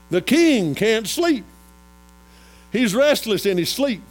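high, loud sermon storytelling; forceful preaching. Real, not acted. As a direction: proclaim it to the congregation.

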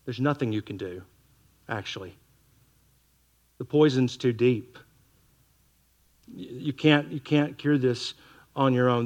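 tender reassurance. Acted. God telling the sinner he cannot cure himself, softly loving. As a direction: gently break the hard news, then comfort.

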